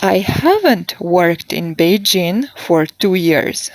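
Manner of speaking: haven't stressed as the main accent. Shown as a demonstration. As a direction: lean on the word haven't. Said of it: "focus on the negative".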